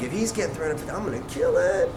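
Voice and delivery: soft, secretive murmur to himself; hushed inner thought. Retold or imitated. Thinking about the stylist's prices, hushed inner thought. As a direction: say it under your breath, privately confident.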